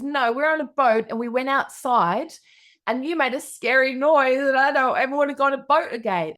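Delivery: put-on high, insistent child's protest; six-year-old daughter. Daughter blaming mum for the scary noise, high child voice. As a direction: imitate a small kid piling up the complaint. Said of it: "my little six-year-old daughter".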